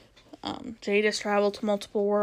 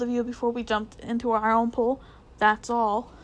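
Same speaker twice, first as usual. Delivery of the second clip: sarcastic. Acted. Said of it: "said Polly sarcastically".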